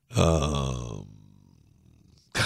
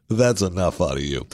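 a hint of a low, stern judge; lightly voiced judge shutting someone down; mildly stern ruling from the bench; 5 semitones lower than usual. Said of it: "I believe that's a quote from the judge".

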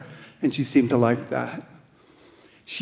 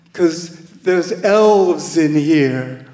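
put-on slow, louder, spaced-out girl; tripping teen; 2 semitones higher, 5 dB louder, slower than usual. Tripping teen telling the volunteer, slow and louder.

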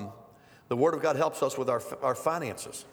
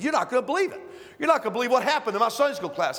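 upset man quoted; 7 semitones higher, 3 dB louder, faster than usual. Retold or imitated. Upset church member voiced.

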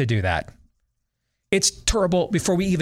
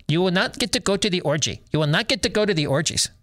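a hint of a put-on Russell Crowe Zeus accent; mock Zeus accent; 3 semitones higher, faster than usual. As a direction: lightly mimic a hammy god's silly accent. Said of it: "in a Jaime Jimenez, you know, um, voice".

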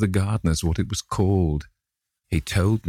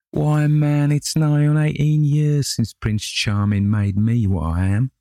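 loud, high bitter outburst; angry laughter; 9 semitones higher, 5 dB louder than usual. A narrator's reading.

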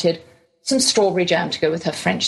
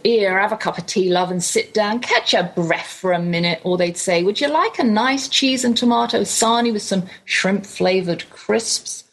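put-on English accent. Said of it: "in my lovely English accent".

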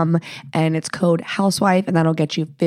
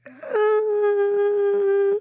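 hesitant friend; 13 semitones higher, much slower than usual. Retold or imitated. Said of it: "they might be like".

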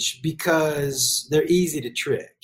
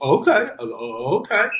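put-on dopey kid agreeing. Kid dumbly agreeing to parent.

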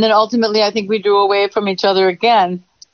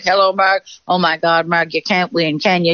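a touch of gloom, sinking lower; mildly downcast, hammed-up resignation; depressed greeting; 3 semitones lower than usual. Women meeting each other on the street, depressed greeting. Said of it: "that kind of, like, depressed person".

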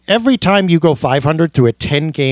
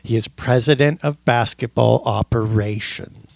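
deadpan fake scolding; sarcastic. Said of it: "That's my sarcasm font".

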